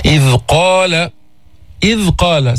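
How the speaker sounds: إذ قال with a vowelless ذ held lightly; careful recited إذ قال; still dhal. Shown as a demonstration. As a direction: rest the ذ of إذ before قال, adding no vowel. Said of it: "سكن الذال".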